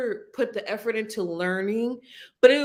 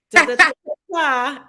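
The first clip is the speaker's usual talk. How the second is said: mock Russian gibberish; 5 semitones higher, 8 dB louder, much faster than usual. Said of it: "I'm gonna be like".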